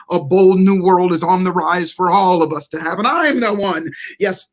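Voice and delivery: reciting a personal affirmation poem; recited poem. Shown as a demonstration. Saying his own poem to himself, a recited mantra. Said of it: "I'll say to myself".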